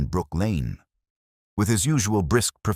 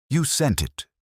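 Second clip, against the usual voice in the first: hoarse, higher rasp of a cornered man; 10 semitones higher than usual. A narrator's reading. Cornered Grant answers Holmes, hoarse. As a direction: push it out hoarsely, caught. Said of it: "he said hoarsely".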